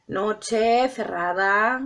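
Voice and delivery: "Noche cerrada" drawn out very slowly for drama; slow dramatic. Shown as a demonstration. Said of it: "Para hacerlo más dramático".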